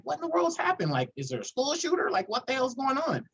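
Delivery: high, worried rush of questions; alarmed. Retold or imitated. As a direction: panic a little as a parent. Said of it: "So I'm like".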